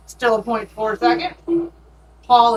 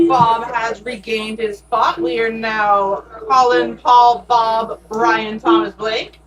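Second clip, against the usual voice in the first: slow, loud race call; loud teacher voice; 4 dB louder, slower than usual. Real, not acted. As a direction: project every name like a teacher. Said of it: "shout into the mic with my teacher voice".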